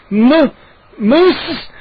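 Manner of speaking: high, strained broken gasp; wheezing. A narrator's reading. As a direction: force the name out with no air. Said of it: "I wheezed".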